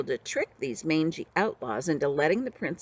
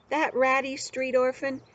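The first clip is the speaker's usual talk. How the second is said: higher, raised angry bellow; bellowing prince; 8 semitones higher than usual. A narrator's reading. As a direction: bellow it in royal outrage. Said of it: "he bellowed".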